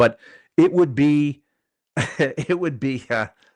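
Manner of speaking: loud, slow, laughing through the words. Recapping old YouTube boxing shows, cracking up at someone mid-sentence: laughing while talking. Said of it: "I'm laughing at Soul Glow".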